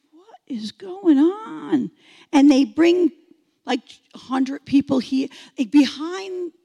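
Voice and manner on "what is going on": slow whispered alarm. Retold or imitated. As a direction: whisper it, suspicious. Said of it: "I'm like".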